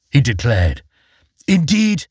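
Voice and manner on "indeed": indeed jumping high; high trout indeed. Acted. Trout's first answer.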